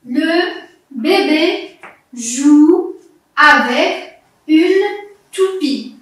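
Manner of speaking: very slow, each word held; careful rereading. Shown as a demonstration. Teacher rereads to find the sound ou, slow and drawn out. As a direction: stretch each word and pause after it. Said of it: "Je vais relire la phrase".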